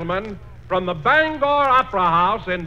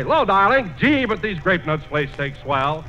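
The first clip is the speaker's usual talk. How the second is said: breathy vintage purr; 4 semitones lower than usual. Acted. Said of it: "he'll manage time out to say".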